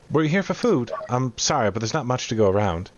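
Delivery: lightly voiced apologetic cook; cook character. Cook telling newcomers there is little food, lightly apologetic.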